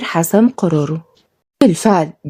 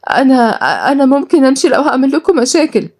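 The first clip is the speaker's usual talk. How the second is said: high, hesitant woman's voice; nervous offer; 6 semitones higher than usual. Acted. Guest offering to leave if she causes trouble, nervous. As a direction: falter after the first word, pitch raised. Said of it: "بصت لها غالية بتوتر".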